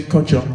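"culture" modelled for a learner; demonstrated pronunciation. Shown as a demonstration. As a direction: say "culture" as a pronunciation teacher would. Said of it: "that's not how to pronounce it".

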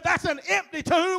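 "empty" leaned on within the phrase; stress on empty. Real, not acted. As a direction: put the weight on "empty". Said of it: "with the emphasis on empty".

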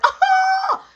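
very high, loud laughing whoop. Retold or imitated. Laughing out loud to irritate the girls on the porch. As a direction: laugh it off to annoy them. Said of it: "I'm laughing out loud 'cause I know that'll irritate a person".

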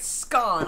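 "scone" as "skon", short o; falling, deliberate "skon" for "scone"; British pronunciation. Shown as a demonstration. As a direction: say "scone" to rhyme with gone. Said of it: "I'll try to remember that".

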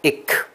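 "ik" with the k released on its own; short vowel, then a separate puff of k in "ik"; sounds said separately. Shown as a demonstration. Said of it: "都要练出来". (把 ik 的两个音都念出来)

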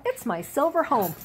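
a hint of childish pride; proud little girl. Stella proudly answers weasels.

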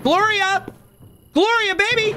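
very high playful call through the house. Pretend. Husband coming home calling his wife, high call. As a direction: sing out for your wife in a high voice.

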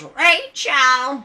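loud, high-pitched mock cry; imitating a spooky-movie holler; mock call. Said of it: "she goes".

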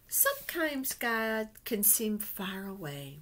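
lively picture-book storytelling voice; reading to children. Acted. Teacher reading a picture book to her class, storytelling voice. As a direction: read it like a storybook to little ones.

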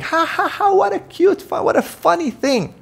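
high mocking fake laugh; hammed-up audience laugh; mock laughter. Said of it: "And everyone's laughing".

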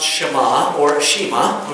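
Shema first as SHEH-mah, then Shema as SHEE-mah; two pronunciations of Shema. Shown as a demonstration. Preacher explaining the Hebrew word Shema, careful slow pronunciation. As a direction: give both ways to say Shema, slow and careful. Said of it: "It is sometimes pronounced".

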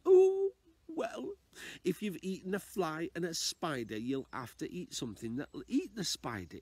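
put-on a wise old lady advising, sing-song. Old lady tells the man to swallow a spider, high voice. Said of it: "my best old lady impression".

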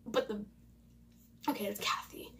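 hushed aside; whisper. Real, not acted. Girl whispering to herself about the quiz result. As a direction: whisper it to yourself.

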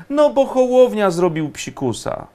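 high-pitched mock excuse; mock explanation. Mock explanation of a broken promise.

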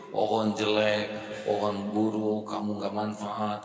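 slow, contemptuous scolding of a tree; scornful insult. Retold or imitated. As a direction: sneer the insults out slowly. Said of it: "dikata-katai buruk". (ejekan kasar yang lambat)

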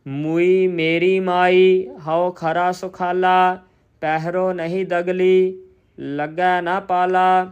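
slow, measured chant-like reading on a level tone; scripture recitation. Shown as a demonstration. Teacher reciting Gurbani for learners, slow measured recitation. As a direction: recite each phrase deliberately, drawing out the vowels.

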